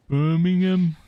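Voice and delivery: Birmingham said high and loud in a put-on Brummie accent; a quick hammed-up Brummie try on Birmingham. Shown as a demonstration. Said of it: "Can you give me your best Birmingham accent?".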